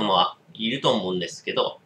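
speaking while drawing smoke; words around a cigarette; cigarette at lips. Real, not acted. Seen 0: Hand lifts cigarette; it sits at his lips through 2.3s.

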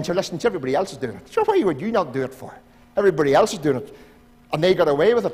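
fast coaxing tempter, rattled off; the easy sly voice egging you on; tempting voice. Pretend. Preacher voicing the tempting inner voice, fast coaxing. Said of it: "another wee voice saying".

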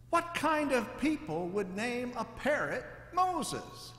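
incredulous burglar. A narrator's reading. Burglar asks the parrot in slow, high disbelief. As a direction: let the disbelief ring out, drawn out.

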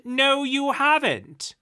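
high, loud, slow scream. A narrator's reading. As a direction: scream it down at him. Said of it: "the ghost screamed".

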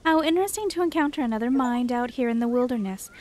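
a lightly voiced, haughty creature scolding a fox; haughty forest creature. Reads a game character's lines.

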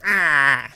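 quick loud "ah"; short loud cry. Real, not acted. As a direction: cry out as the game goes wrong. Character dies in the game.

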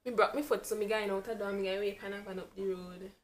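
light put-on Jamaican patois; Jamaican accent. Friend telling a foot story in Jamaican accent. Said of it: "that's really Jamaican".

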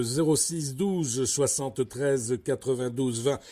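slow, spelling out the phone number; slow dictation. Real, not acted. Host giving the listeners the number, slow and deliberate. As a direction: read each digit slowly so they can write it down. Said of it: "je le répète".

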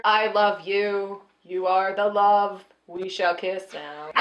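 low, measured mock declaration of love; stilted romantic. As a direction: recite love lines with awkward formality. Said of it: "what I will do to be romantic".

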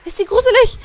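high, loud scared yelp; startled shriek. Real, not acted. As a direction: jump at the ghost and cry out. Scared by ghost girl.

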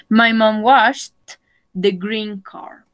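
slow, careful model sentence. Shown as a demonstration. Teacher slowly modelling the sentence. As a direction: spell it out slowly for the class.

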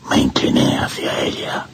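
whispered, shaking with fear and desire; trembling whisper. Acted. Priest bending over his dead beloved, whispered. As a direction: lean in and breathe the words.

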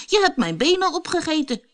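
a tiny cookie in shock; alarmed gingerbread man. A narrator's reading. The gingerbread man to the fox, high and dismayed. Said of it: "zei de gemberkoekman".

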